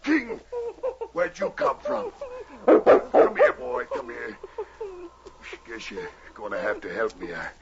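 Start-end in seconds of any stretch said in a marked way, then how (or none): 0.0-4.4 excited calling. Acted. Wounded man calling to his dog.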